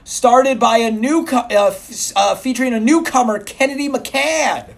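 booming announcer read; loud sharp voice. Acted. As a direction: yell the whole blurb. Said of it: "Why are you yelling?".

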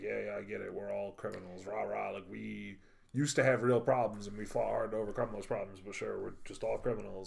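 annoyed sarcastic. Retold or imitated. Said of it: "annoyed by that whole".

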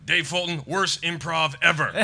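slow, loud mock verdict; mock declaration. The speaker declaring his put-down to Mike, slow and loud. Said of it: "he declares to Mike Wilmot".

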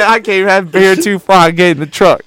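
high, loud hammed-up gripe; loud mocking impression of a local; imitating local. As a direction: whine it like the guy on the news. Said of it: "Before, say".

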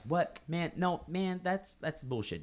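high, outraged protest; mock indignant customer. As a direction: whine like a caught cheater. Customers protest gift card refusal.

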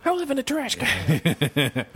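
high, slow grumpy puppet voice; grouch voice. Pretend. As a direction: croak it out like a trash-can grouch. Oscar the Grouch impression.

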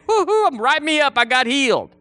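high, whooping mock jubilation; mock celebration. Healed churchgoer celebrating only himself, mock celebration. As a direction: whoop like someone showing off a healing. Mocks self-centred celebration of healing.

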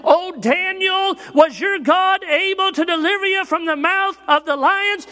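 high, loud call down into the den; King Darius yelling. Acted. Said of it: "King Darius yells down".

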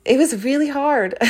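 high, loud and choked, half laughing; fighting back tears with a laugh; laughing through tears. Real, not acted. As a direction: voice cracking up between laughs. Emotional moment, laughing and tearing up.

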